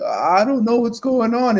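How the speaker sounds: high, drawn-out mock clueless voice; rising pitch. Shown as a demonstration. Agent losing control of pitch while practicing scripts, rising pitch. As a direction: exaggerate the climb, slow and way up high. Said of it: "the minute you start to increase".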